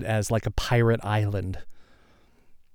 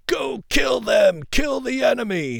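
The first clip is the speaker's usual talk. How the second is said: drill sergeant shout; 12 semitones higher than usual. Retold or imitated. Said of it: "he's shouting at them".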